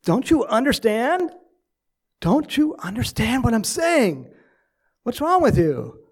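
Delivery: exasperated son shouting, loud and high; hot under the collar. Retold or imitated. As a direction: act out a son blowing up at his dad, stretching the repeats. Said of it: "a little bit more hot under the collar".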